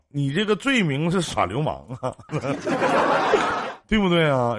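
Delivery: amused, cracking up mid-sentence; laughing. Real, not acted. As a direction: laugh out the accusation. Host teasing, laughing.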